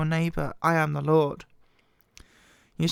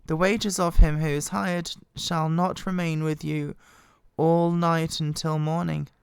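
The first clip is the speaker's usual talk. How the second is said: scripture reading. Acted. Reading the Bible aloud to listeners in a measured voice. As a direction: read the law out with solemn care.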